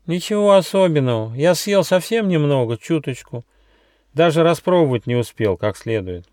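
high-pitched, innocent mouse voice; little mouse. Acted. Glutton mouse answers the squirrel's teasing, defensive.

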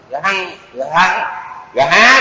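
"gà hăng" in separated syllables, g then breathy h; aspirated Pali gh. Shown as a demonstration. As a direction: break "gà há" apart to show the h. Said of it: "Gà há đọc nhanh á".

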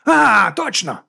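high, loud burst of recognition; light up as it comes back; loud, lifted recall; sudden realisation. A narrator's reading. Sudden realisation, eyes widen.

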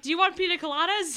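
Miss Swan voice. Retold or imitated. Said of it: "And she'll be like".

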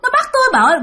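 very high, strained panicked cries; dying husband wailing in terror to his wife; terrified wailing. Retold or imitated. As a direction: wail like a dying man being seized. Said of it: "Mà ổng làm thấy ghê lắm".

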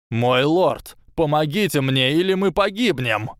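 high, rising terrified cry; desperate plea. A narrator's reading. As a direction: beg for his life. Quirrell begs, fears death.

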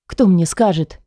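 usual speaking voice

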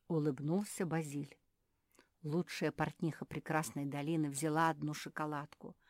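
plain reading voice

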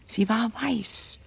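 hushed, slow ghost-story whisper; spooky whisper. Acted. Maid telling Laura of the ghost, whispering.

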